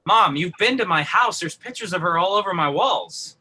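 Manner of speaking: exasperated son. Acted. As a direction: argue indignantly with your forgetful mom. Son protests mother not knowing sister.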